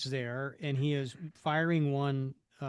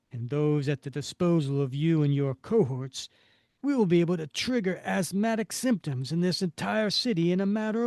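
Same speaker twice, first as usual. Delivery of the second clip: villain voice; 2 semitones higher, 5 dB louder than usual. Acted. Villain threatens warden.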